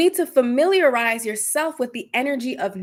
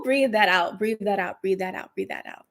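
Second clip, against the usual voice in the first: fading guidance. Acted. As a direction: guide the exhale down to nothing. Guided exhale fading.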